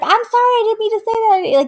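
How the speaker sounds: high, rushed backpedalling; mock frantic apology. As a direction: imitate a friend apologising in a hurry. Friend's hasty apology to furious mom.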